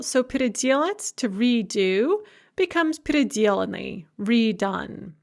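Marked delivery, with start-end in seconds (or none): 0.2-1.1 переделать stressed on де, the next-to-last syllable; stress before the ending. Shown as a demonstration. Teacher showing earlier stress, де stressed in переделать. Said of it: "it remains on the same syllable". 3.0-4.1 переделаны stressed on the syllable де; unmoved stress. Shown as a demonstration. Teacher showing stress that stays put, де stressed in переделаны. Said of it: "it remains on the same syllable".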